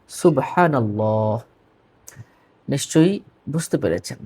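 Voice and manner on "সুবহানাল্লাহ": সুবহানাল্লাহ joined as one word, said slowly; correct pronunciation. Shown as a demonstration. Teacher giving viewers the joined form. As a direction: link সুবহানাল্লাহ without a break. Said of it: "সুবহান আল্লাহ নয়".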